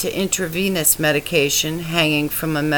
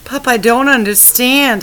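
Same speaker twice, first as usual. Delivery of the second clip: crying plea; 6 semitones higher, 6 dB louder than usual. A narrator's reading. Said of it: "I cried harder".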